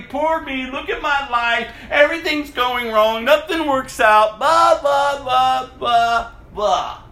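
whiny, self-pitying moan that trails off into blah blah; mock pity-party whine. Preacher mocking his old self with a sing-song whine. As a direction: mimic your old self-pitying complaining. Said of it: "I had my little pity party".

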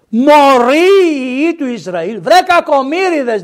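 loud, high, drawn-out cry of rebuke; scolding rebuke. Acted. Prophet scolds the foolish people of Israel, loud rebuke. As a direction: call out the scolding slowly and loudly.

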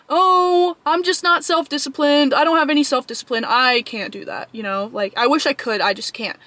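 lightly whiny imitation of giving up; mock self-pity. Mimicking people lacking self-discipline.

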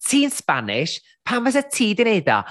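rising mocking voice of a monoglot; a hint of a clueless questioner. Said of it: "Y classic monoglot joke o fatha".

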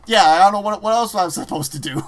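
loud mock helpless reply; half-laughing shrug. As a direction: shrug it off, amused. Louis answers, deadpan retold.

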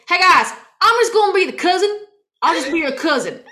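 put-on loud, high kid doing a redneck accent; little boy's big redneck twang; redneck cousin. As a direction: holler it in a hammed-up hillbilly accent. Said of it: "He's just gonna be a redneck cousin".

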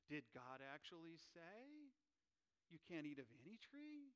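lightly voiced snake, coaxing; sly serpent. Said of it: "my best serpent imitation".

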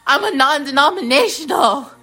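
high-pitched hammed-up protest of innocence; mock pleading. Christian podcaster begging to be spared, high mock plea. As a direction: plead in a comic high wail.

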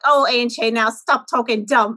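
Pennsylvania Dutch grandmother, slowing to a drawl; lightly teasing Pennsylvania Dutch accent, laugh creeping in. Retold or imitated. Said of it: "That's such a good accent".

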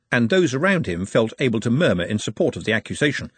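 ordinary delivery

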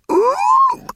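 high ape hoot, shouted; a high excited orangutan cry. A narrator's reading. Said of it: "tugging ineffectually at their robes and shouting".

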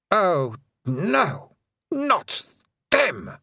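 high exasperated groan; queen's annoyed wail; dismayed queen. Acted. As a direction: throw up your hands in dismay.

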